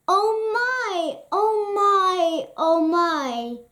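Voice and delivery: high, thrilled gushing. A narrator's reading. Stepmother thrilled by the palace invitation, high and gushing. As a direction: squeal it out with delight. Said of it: "thrilled Cinderella's stepmother".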